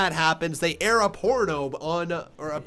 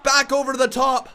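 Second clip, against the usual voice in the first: worried commentary; 6 semitones higher than usual. Real, not acted. Shaken after a botch.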